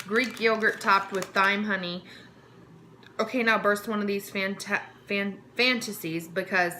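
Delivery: upbeat product voice-over read; script read. Acted. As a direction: read it like a snack-box ad.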